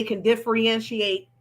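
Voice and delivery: "differentiate" sounded out syllable by syllable; careful pronunciation. Real, not acted. Host clarifying for folks, "differentiate" pronounced carefully. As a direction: take your time getting through "differentiate". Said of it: "I took my time on that one".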